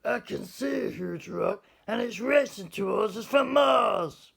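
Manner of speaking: high, loud startled yell; a boy yelling in alarm at a rock from Mars; shocked shout. A narrator's reading. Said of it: "Then he shouted in shock".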